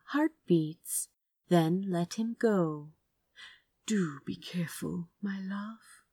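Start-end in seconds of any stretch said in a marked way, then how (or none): 3.8-6.0 soft, much softer, loving whisper; tender whisper. Acted. Azra saying goodbye to his lover, tender whisper. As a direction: breathe it to him like a secret. Tender farewell before the fight.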